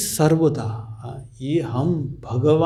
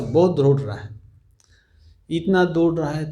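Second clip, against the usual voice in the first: usual speaking voice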